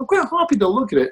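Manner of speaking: very high, insincere put-on voice. Imitating how evidence-based people say it: put-on high voice. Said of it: "they put in this high voice".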